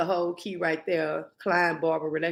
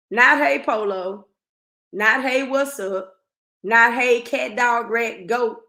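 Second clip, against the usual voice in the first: exasperated listing; 3 semitones higher, 4 dB louder, slower than usual. Real, not acted. Listing greetings he should use.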